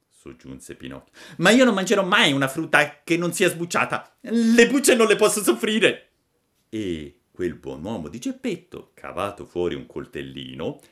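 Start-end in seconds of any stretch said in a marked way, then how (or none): 1.4-6.1 fussy high puppet demand; a picky wooden boy making terms. Acted. Pinocchio pretende che Geppetto sbucci le pere, voce acuta.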